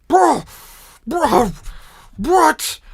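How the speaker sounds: high, loud indignant yells; outraged orc shouts. Acted. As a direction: howl it like a cheated orc crowd. Orcs protest postponed festivities.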